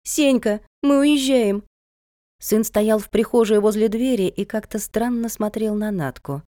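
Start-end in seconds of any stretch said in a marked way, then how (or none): 0.0-1.6 put-on high call to a child; urgent high-pitched announcement. A narrator's reading. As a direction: summon your son with a lifted voice. Mother calls out to her son.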